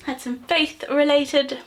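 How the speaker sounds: talking while chewing gum; words round a piece of gum. Real, not acted. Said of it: "Sorry, I'm chewing chewing gum".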